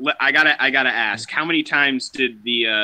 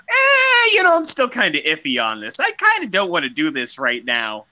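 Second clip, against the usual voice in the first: whiny mock recruit; 4 semitones higher than usual. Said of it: "and you're like".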